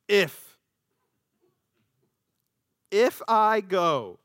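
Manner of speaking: slow, halting reluctance; hesitant drawn-out if. Acted. Moses stalling before God, slow and unsure. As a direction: stall on each word, unsure.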